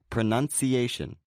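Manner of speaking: pro-NUN-ci-A-tion, main stress on the A; main and secondary stress. Shown as a demonstration. Teacher giving an example of two stresses, main and secondary stress. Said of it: "the A is the main stress".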